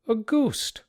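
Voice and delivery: pitched high, incredulous question; can't believe their ears; startled disbelief. Acted. Men in the tavern doubting the frightened man, incredulous high.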